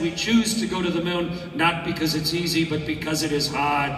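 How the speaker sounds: put-on a light, clumsy Boston accent on the famous quote; a hammed-up Boston accent, Kennedy style; terrible Boston accent. Quoting Kennedy's moon speech to graduates in a bad Boston accent. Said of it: "a terrible Boston accent".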